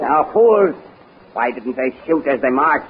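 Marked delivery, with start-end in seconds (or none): 0.0-0.8 sharp angry outburst at the guards; angry shout. Acted. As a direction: bark it out in anger. Carl scolds guards, outburst.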